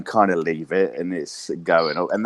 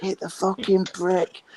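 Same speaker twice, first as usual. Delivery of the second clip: much higher, slow, drawn-out heckle; drunk fan yelling; 12 semitones higher, slower than usual. Retold or imitated. Retelling the hockey fight to the host, a high slow heckle. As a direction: egg the player on like a rowdy fan. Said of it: "just bashing on the glass".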